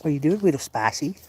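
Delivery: high, sing-song question to the kitten; high cooing pet talk. Real, not acted. Man cooing at his little cat, high sing-song.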